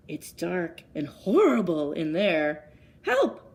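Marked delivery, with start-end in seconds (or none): 3.0-3.5 put-on high, frightened little boy's cry; frightened cry for help. A narrator's reading. Eddie lost in the dark woods, a high frightened cry. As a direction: yelp it like a scared child lost in the woods. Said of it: "said Eddie".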